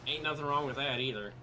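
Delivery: a hint of American Southern accent; easy Southern US lilt. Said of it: "again, with the southern accent".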